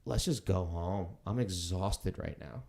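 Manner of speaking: slow, mildly weary retelling; tired. Retold or imitated. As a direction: wearily suggest calling it a night. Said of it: "like, being tired".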